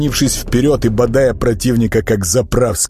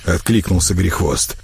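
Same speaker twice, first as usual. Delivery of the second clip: ordinary delivery, nothing marked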